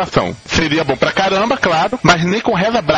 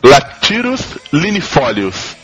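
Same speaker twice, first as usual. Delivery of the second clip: slow Latino accent on Latirus linifolius; 2 semitones lower, slower than usual. Shown as a demonstration. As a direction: say the herb name with a Latino accent. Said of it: "é um sotaque latino aqui que eu tô usando".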